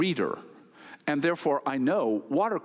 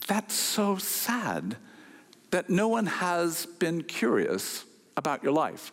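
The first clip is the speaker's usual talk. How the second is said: sympathetic; slower than usual. Retold or imitated. Speaker's sympathetic remark.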